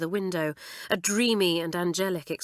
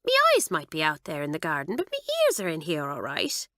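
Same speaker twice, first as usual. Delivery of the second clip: put-on solemn Irish girl. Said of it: "Kitty would reply solemnly".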